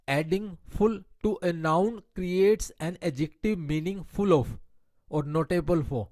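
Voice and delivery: slow, deliberate reading of an English grammar rule. Shown as a demonstration. Teacher reading a grammar rule to her Hindi-speaking class, slow and deliberate. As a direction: spell out the rule word by word for students.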